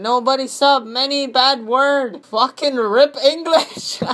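high, slow, stilted reading voice; mocked commenter. Reading a commenter's mangled English aloud, stilted mock scolding. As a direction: plod loudly through it in mock broken English. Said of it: "you want me to show you?".

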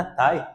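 তাই with the ই glided fast into the আ; তাই said as one gliding syllable; quick diphthong. Shown as a demonstration. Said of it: "আমরা বলি না". (তাই-এর ই দ্রুত মিলে যায়)

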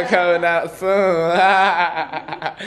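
laughing through the words. Real, not acted. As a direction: laugh while teasing it. Laughs teasing new collection.

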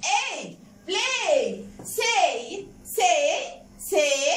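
"play" and "say" ending on a held letter-name A; long A sound. Shown as a demonstration. Teacher drilling AY words, long A in "play" and "say". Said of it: "لما يجي وراها Y بننطق A".

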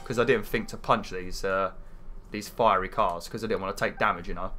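blocked nose, nasal tone. Real, not acted. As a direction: talk through a stuffy nose. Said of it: "like, nasally, like I'm holding my nose".

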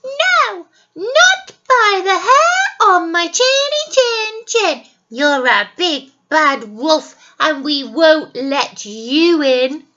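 high loud defiant squeal; shouting pigs. Acted. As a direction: shout it back. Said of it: "they shouted".

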